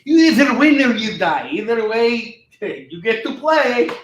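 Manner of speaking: high, loud put-on Russian voice; mock Russian accent. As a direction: play a hammed-up Russian chess tyrant. Mock Russian chess lesson threat.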